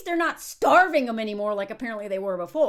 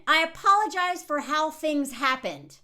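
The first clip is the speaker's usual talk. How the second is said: slow, evasive apology that dodges the blame; passive non-apology; slower than usual. Retold or imitated. Mocking the boyfriend's passive apology, slow and evasive. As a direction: read it like a careful non-apology. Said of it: "This passive voice".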